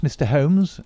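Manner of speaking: eager question to Holmes; excited cry. Acted. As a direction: press Holmes for news. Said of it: "he cried".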